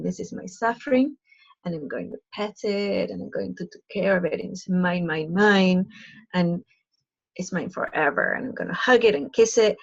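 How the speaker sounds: cradle the suffering like a treasure, lightly imitated; possessive clinging. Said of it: "she said it like that".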